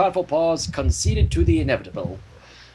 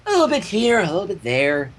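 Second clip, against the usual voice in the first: airy Pinky. Acted. Pinky brushing off the effort, breezy. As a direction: toss it off lightly. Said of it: "Pinky said airily".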